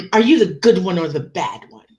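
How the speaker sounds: pointed mock interrogation; lightly imitated mother, stressed choices; attempted mom's voice. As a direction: size them up as the teasing mom. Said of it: "I can't do my mom's voice".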